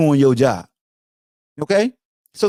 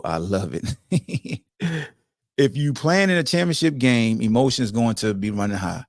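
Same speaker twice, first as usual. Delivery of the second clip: ordinary talk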